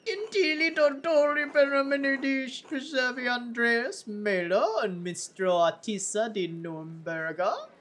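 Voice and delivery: high, put-on Italian introduction; comic formal Italian character voice; funny voice. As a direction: announce it in a silly high voice. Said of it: "he's got a funny voice now".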